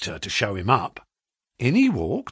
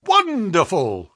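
slow, drawn-out, raised cry of wonder; delighted cry; 7 semitones higher, 4 dB louder, slower than usual. A narrator's reading. Agent marvels at the clerk's answers, crying out. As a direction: hands up, savour the word. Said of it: "he cried, with his hands up".

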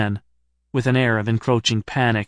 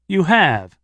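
higher, louder amazed retort; floored by what he's learned; amazement; 5 semitones higher, 4 dB louder than usual. Acted. Narrator catching Stephen out, amazed, higher and louder. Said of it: "I said in amazement".

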